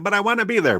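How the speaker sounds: put-on high whiny plea, like a sulking kid; whiny pleading voice. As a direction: pout and plead, pitched high. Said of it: "Be like".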